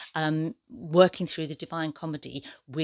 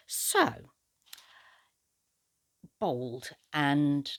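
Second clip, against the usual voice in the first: usual speaking voice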